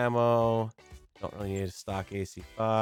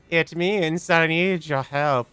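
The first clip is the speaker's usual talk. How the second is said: a hint of an eerie computer, rising to urgent; lightly voiced solemn machine; creepy AI voice; 4 semitones higher than usual. Reads AI character's lines.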